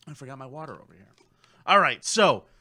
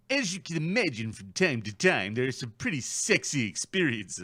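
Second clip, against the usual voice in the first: put-on New Zealand accent; 5 semitones lower than usual. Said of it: "we're all doing voices now?".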